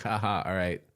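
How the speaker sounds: light mock Asian accent. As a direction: toss in a hint of an Asian accent. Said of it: "threw in an Asian accent".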